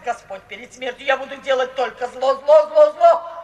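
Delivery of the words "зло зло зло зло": loud, hammered repeated word; defiant shout. Acted. Mother vowing evil before her daughter, loud defiant shout. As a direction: pound out each word like a curse.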